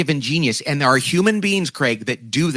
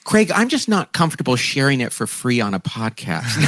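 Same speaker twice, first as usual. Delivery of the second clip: mock refusal; 2 semitones lower than usual. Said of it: "I'm just teasing".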